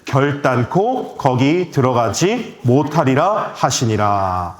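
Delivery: measured, slowing congregational reading; scripture reading aloud. Real, not acted. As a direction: read the verse out deliberately for others to follow. (또박또박 성경 봉독)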